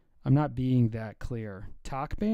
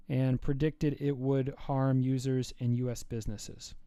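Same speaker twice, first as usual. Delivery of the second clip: news read; 5 dB louder than usual. Real, not acted. Reads a news item aloud.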